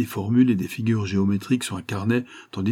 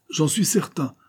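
high, insistent assertion; emphatic exclamation; 8 semitones higher than usual. A narrator's reading. Captain insists on his prediction, emphatic exclamation. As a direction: exclaim it with conviction. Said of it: "s'écria le capitaine".

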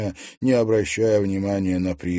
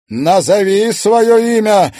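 loud, high, drawn-out command; slow, forceful order; firm demand; 13 semitones higher, 13 dB louder, slower than usual. A narrator's reading. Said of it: "твёрдым голосом потребовала Кадиша".

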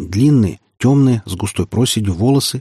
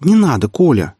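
interrupting; 6 semitones higher, 3 dB louder than usual. Acted. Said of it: "перебила его Соня".

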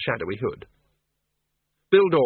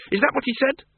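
put-on high, pressing old woman voice; urgent woman; 13 semitones higher than usual. Miss Flitworth argues with Bill, high and urgent. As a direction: press the danger on him.

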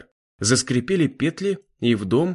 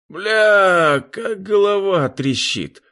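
a pained hungover groan, higher and louder; 9 semitones higher, 4 dB louder, much slower than usual. A narrator's reading. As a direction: wake up with a splitting head and moan it out. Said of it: "пробормотал парень".

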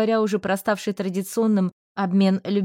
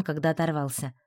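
ordinary talk, nothing marked

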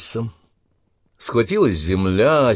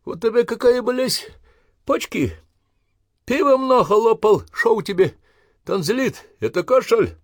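high, loud sneering taunts; mocking jeers; 8 semitones higher, 4 dB louder than usual. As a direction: ridicule the sick recruits. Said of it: "изгалялись".

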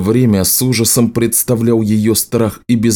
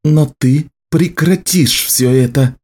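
slow, higher, forceful warning; dangerous threat; 6 semitones higher than usual. A narrator's reading. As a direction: lay down the law slowly. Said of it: "тоном столь опасным".

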